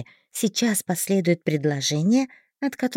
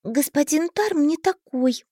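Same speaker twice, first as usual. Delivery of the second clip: put-on stubborn girl; 7 semitones higher, slower than usual. A narrator's reading. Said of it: "упрямо сказала я".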